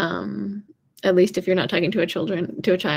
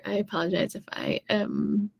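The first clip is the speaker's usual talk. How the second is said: whispered apology; 5 dB quieter than usual. Real, not acted. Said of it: "so I apologize if I am".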